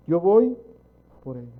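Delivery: Jesus vowing out loud to go down for them; loud declaration. Acted. As Jesus, promising loudly to come for his people.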